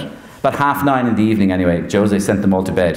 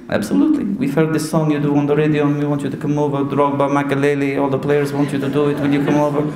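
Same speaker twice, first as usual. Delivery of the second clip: put-on higher Portuguese-accented Mourinho voice; Portuguese manager's accent, raised pitch; Jose Mourinho impression; 4 semitones higher than usual. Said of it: "I do his voice".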